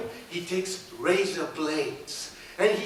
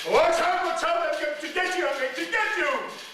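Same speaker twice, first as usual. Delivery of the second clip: witch threat; 8 semitones higher than usual. Acted.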